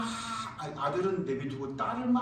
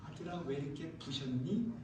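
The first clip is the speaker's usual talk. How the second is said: gentle quiet mother; 9 dB quieter than usual. Acted. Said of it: "조용히 엄마가".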